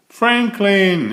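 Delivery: worried father calling. A narrator's reading. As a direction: call into the dark woods. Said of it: "he called".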